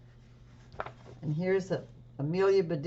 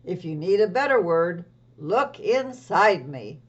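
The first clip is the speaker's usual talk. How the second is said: creature voice; 6 dB louder than usual. Acted. Thesaurus puppet continues.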